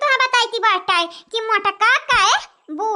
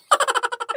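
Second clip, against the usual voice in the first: short rattling chuckle; staccato laugh; 4 dB quieter than usual. Acted. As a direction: laugh in quick, even bursts. Villager laughs before singing.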